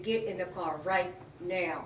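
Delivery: slow, deliberate imitation of an order; retold firm order. Officer ordering her into the car, slow command. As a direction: space out each word as a command.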